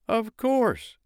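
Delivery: high cheery snowman. Acted. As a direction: answer brightly. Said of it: "answered the snowman".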